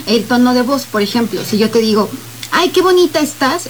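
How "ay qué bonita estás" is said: a quick, natural compliment rising on bonita; spontaneous compliment. Shown as a demonstration. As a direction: say it as if it just slipped out. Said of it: "es espontáneo". (cumplido espontáneo, natural, subiendo en bonita)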